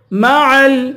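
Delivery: مَعَ ال- with a distinct throaty ع; clear ayn. Shown as a demonstration. Teacher showing the two ayns, مَعَ with a clear ع. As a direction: chant مَعَ ال-, each ع clean. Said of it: "ان دونوں عین کو صاف پڑھیں گے".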